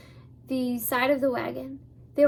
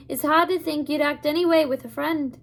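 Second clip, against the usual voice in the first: put-on a light, amateur Scottish accent for the old man; old Abner steadies the hidden children in a mild Scottish accent; 3 semitones higher, 5 dB louder than usual. Abner, lightly Scottish, tells them to stay in the wagon. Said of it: "not very fluent in Scottish accents".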